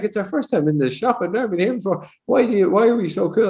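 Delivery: high, lilting Scottish customers; imitated Scottish accent. Host acting out two customers in the shop, Scottish accent. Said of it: "two Scottish people were in there earlier".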